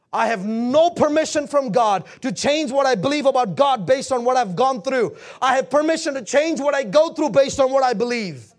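firm, emphatic pulpit declaration; punchy preacher's cadence; full-force preaching. Acted. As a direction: declare it to the whole congregation.

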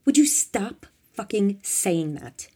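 loud, slow, emphatic complaint; exasperated shout back. A narrator's reading. Bob shouting back at Tiffany in the car, exasperated. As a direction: shout it back, dragging out the words. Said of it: "Italian Bob shouted back".

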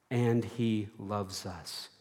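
soft, slow repeat. Shown as a demonstration. Repeated slower, softer.

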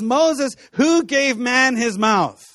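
God pressing the question on Moses; voicing God, challenging. Preacher voicing God rebuking Moses, mild stern challenge. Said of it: "he says".

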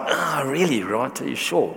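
soft, hesitant inner voice; quietly unsure, as if to himself; inner doubt. Retold or imitated. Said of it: "but inside my heart, I'm like".

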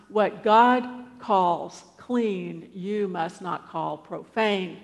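very slow, spaced-out repetition; insistent divine voice. Acted. The voice repeating itself to unconvinced Peter, insistent. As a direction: drive it home word by word. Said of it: "has to say it three times".

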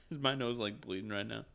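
talking with a nosebleed. Real, not acted. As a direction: speak through a bleeding nose. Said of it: "Damn it, I got a nosebleed".

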